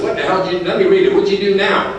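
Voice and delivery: imitating an exasperated in-law; retold exasperated demand. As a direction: act out a taken-aback father-in-law. Father-in-law's startled retold reaction.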